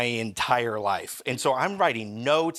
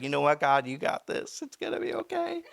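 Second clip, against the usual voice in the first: mock prayer. Pretend prayer, forced optimism.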